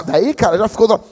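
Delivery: ordinary delivery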